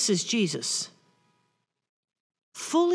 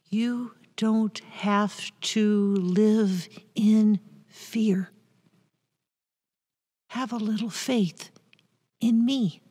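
tender reassurance; slower than usual. Acted. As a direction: lean close and reassure them gently. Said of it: "said tenderly, lovingly".

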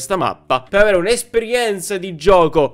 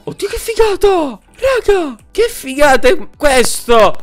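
high, thrilled squeal of delight; excited; 10 semitones higher, 4 dB louder than usual. Real, not acted. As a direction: gush with pure delight. Amazed at the view. (entusiasmo alle stelle)

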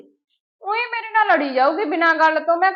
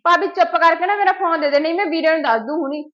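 loud, hitting ਮੇਰਾ, demanding the phone back; angry threat; 6 dB louder than usual. Acted. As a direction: threaten her with the brother, louder. Quarrel, threatens to tell brother. (ਗੁੱਸੇ ਵਿੱਚ ਧਮਕੀ)

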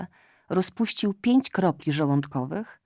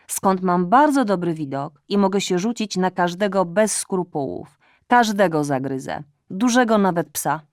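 fawning cat; 2 semitones higher, 6 dB louder than usual. Acted. Cat's fawning speech.

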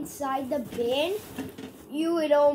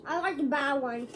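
laughing. Real, not acted. Laughing at himself.

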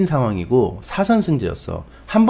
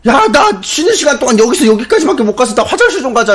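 high, loud pleading rant; desperate hammed-up shout, pitched way up; frustrated outburst; 12 semitones higher, 6 dB louder than usual. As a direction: yell at the crowd to let you through. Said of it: "내가 너무 답답한 거야".

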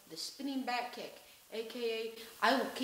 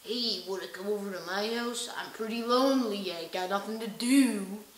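lightly voiced creep, a bit louder; mock a needy creep asking you over; creepy lonely guy; 5 dB louder than usual. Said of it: "He's like".

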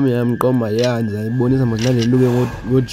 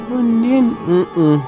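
cold shock yelp; 12 semitones higher, much slower than usual. Real, not acted. Yelp in ice bath.

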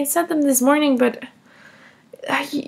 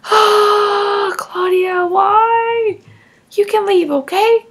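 raised, louder voice telling her off; angry scolding; 4 semitones higher, 5 dB louder, much slower than usual. Acted. Mother ordering Claudia to leave, angry and loud.

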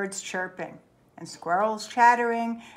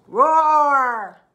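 loud bear roar; angry bear roar; 5 semitones higher, 10 dB louder than usual. Acted. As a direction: roar at the pests. Bruce losing his cool.

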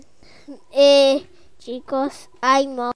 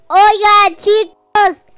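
urgent call; 4 semitones higher, 5 dB louder than usual. Pretend. Urging friends to run.

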